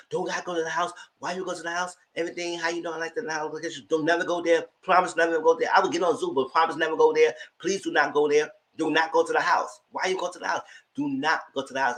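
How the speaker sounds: desperate scammer voice, keeps pleading; pushy catfish. Retold or imitated. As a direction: beg them again and again not to go. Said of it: "so adamant and so hyped about the house".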